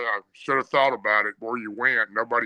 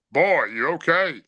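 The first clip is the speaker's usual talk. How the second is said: higher, drawn-out question imitating grandfather; concerned grandfather; 5 semitones higher than usual. Grandfather checks on his breathless grandson, retold concerned question.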